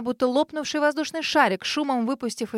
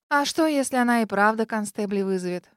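ordinary delivery, nothing marked

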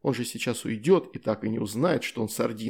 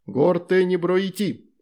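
loud, higher, slow angry spell; irritated shout; 7 semitones higher, 5 dB louder, slower than usual. Acted. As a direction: shout the banishing word in irritation. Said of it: "раздражённо выкрикнул Майна". (раздражённый громкий выкрик заклинания)

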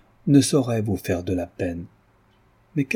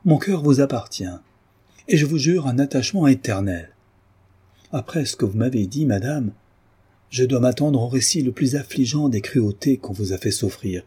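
ardent vow; 3 semitones higher than usual. Acted. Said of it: "avec chaleur".

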